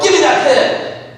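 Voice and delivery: snatch the pen, impatient and high; mock urgent demand; Paul grabbing the pen. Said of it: "And then Paul's like".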